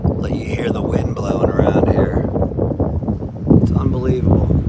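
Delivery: loud voice over howling wind; shouting over wind. Real, not acted. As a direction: shout above a storm. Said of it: "I don't know if you can hear me over the wind".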